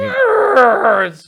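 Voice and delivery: long, high screamed taunt; drawn-out, very loud high jeer; mock scream. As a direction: scream it and stretch it right out. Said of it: "when screaming that at the screen".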